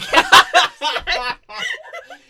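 loud high-pitched laugh; burst of laughter. Real, not acted. Reacts to being asked about character.

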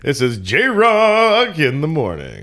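slow, loud DJ sign-off; radio host voice. Pretend. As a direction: boom it out like a morning show. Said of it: "It sounds like a, a radio host".

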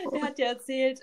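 words catching as the crying starts; starting to cry. Real, not acted. Remembering her late grandpa, she starts to cry. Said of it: "oh, jetzt muss ich gleich weinen".

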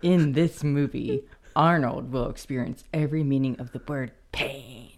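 tough boxer growl, half-whispered; lightly voiced menacing fighter; Clubber Lang. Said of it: "Clubber Lang reads the last one".

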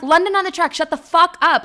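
high, loud telling-off; retold angry outburst; exasperated retort. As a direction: shut him down, acting out the quarrel. Acted quarrel, snapping back at him.

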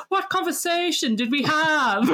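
high, laughing disbelief; the speaker laughing. Retold or imitated. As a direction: laugh through her confused question. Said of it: "she's like".

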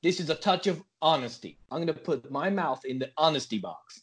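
mock-solemn American declaration; comic American podcaster; put-on American accent. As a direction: make a showy pledge in an American accent.

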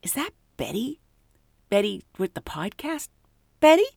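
high, curious pilot voice; a lightly voiced pilot asking; pilot's question. Pilot asking Betty if she's the podcast host, lightly voiced.

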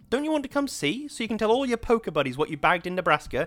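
high, loud and bitter, close to tears; a wife screaming in grief at her husband; hysterical sobbing shout. A narrator's reading. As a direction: fling the words at him through sobs. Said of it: "the rest was lost in fresh sobs".

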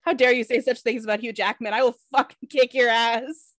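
mock indignation. Fan defending Hugh Jackman, mock indignation. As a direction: defend your idol with playful outrage.

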